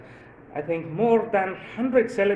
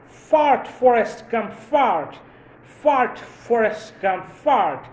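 high, loud cheering chant of a crowd; crowd shouting; 6 semitones higher, 5 dB louder, much slower than usual. Pretend. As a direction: call out like fans cheering him on from the roadside. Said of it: "people would shout to him".

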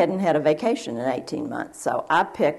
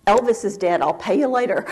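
hurried announcement; 5 semitones higher, 4 dB louder than usual. Retold or imitated. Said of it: "I said".

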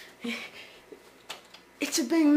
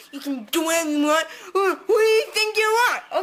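mock indignant rant; 3 semitones higher than usual. Mock rant at viewers sitting home.

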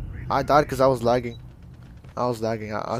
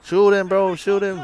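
excited shout; 6 semitones higher, 8 dB louder, slower than usual. Real, not acted. Urging teammate mid-firefight.

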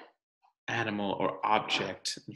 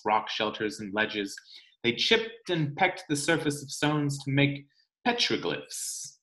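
put-on reading to children. Teacher reading the rock book to her class, storytime narration. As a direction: read it aloud for the class.

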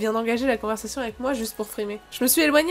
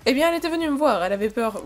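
slight mock German accent; faster than usual. Professor explaining a roommate's visit, German accent. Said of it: "j'ai arrêté de faire l'accent allemand".

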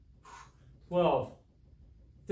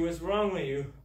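mock complaint; 3 semitones higher, 4 dB louder than usual. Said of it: "I'm just teasing you".

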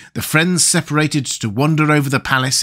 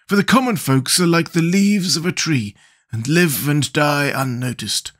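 Scarecrow voice; 5 semitones higher than usual. Acted. Scarecrow telling Jack the unusual are worthy, musing voice. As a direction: muse on unusual people.

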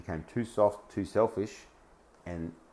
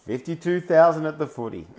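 laughing disbelief; 6 semitones higher, 5 dB louder than usual. Real, not acted. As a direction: repeat it again, higher and louder, laughing through it. Repeats comment, laughing in disbelief.

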